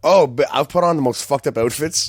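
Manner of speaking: loud, high, laughing confession; laughing exclamation. Real, not acted. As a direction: crack up while telling on yourself. Laughing at own odd outfits.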